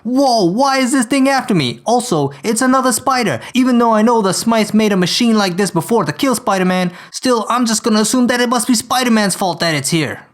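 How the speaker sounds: put-on indignant complaint in an amateur Brooklyn accent; poor Brooklyn accent. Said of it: "hear my poor Brooklyn accent".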